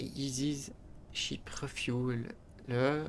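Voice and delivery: French speaker reading an English mod name, slowly; slow, careful English with a French accent. Real, not acted. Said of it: "Pardonnez-moi mon accent anglais".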